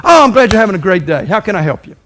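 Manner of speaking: mock-bright church greeter; cheerful greeter voice. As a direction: beam at the newcomer.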